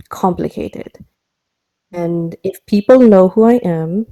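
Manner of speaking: lightly put-on accent mashup; measured, heavily paused speech in a mixed accent; Tara. Tara warning Japsor about her line of work, mixed-accent character voice. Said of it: "a terrible mashup of multiple accents".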